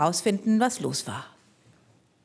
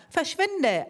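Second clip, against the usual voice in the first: angry call; 8 semitones higher than usual. Acted. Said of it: "ein anderer".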